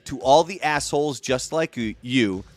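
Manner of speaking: slow, deliberate spoken recital; dramatic lyric reading. Shown as a demonstration. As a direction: read the lyrics with weight. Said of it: "for the actual lyrics".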